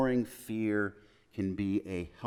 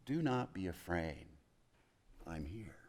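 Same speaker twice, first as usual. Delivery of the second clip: much softer, fading into a whisper; hushed comfort; 4 semitones lower, 12 dB quieter than usual. Acted. Jesus softly reassuring his afraid disciples, almost whispered. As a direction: breathe it close like a secret reassurance.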